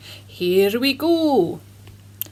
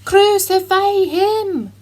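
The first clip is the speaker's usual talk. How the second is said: high, loud, drawn-out scream; crowd screaming; 9 semitones higher, 8 dB louder, slower than usual. A narrator's reading. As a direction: scream louder than before, slowly. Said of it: "the crowd screamed all the louder".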